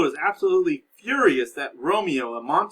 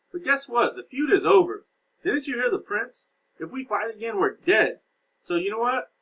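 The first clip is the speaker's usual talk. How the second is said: raised pitch, lively fatherly uncle scolding a nephew; modern paraphrase of Capulet; 6 semitones higher, 3 dB louder than usual. Retold or imitated. Uncle Capulet to hot-headed Tybalt, higher and lively. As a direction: talk Tybalt down like an exasperated uncle. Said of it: "So Lord Capulet has said".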